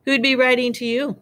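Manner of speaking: high-pitched sneering question. A narrator's reading. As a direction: ask it with mocking disbelief. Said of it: "sneered Uncle Vernon".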